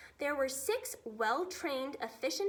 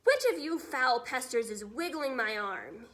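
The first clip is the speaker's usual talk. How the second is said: louder angry giant roar; giant's bellow; 5 dB louder than usual. Acted. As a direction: bellow at the soldiers. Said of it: "he bellowed".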